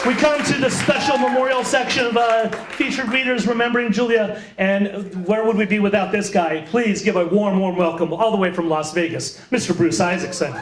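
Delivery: live host announcing a featured reader; stage announcer. Real, not acted. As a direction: welcome the next act to an audience. Host introduces next reader on stage.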